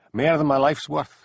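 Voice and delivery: dramatic. Acted. Schoolboy hamming up his secret to Jenny, dramatic. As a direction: play it as a big secret. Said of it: "said Geordie dramatically".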